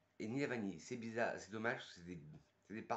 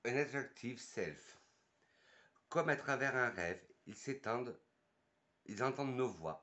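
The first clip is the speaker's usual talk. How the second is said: slow, poetic read-aloud; slow dreamy perfume-card read; dreamy description reading; 3 dB louder than usual. Acted. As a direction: savor each line like a perfume ad.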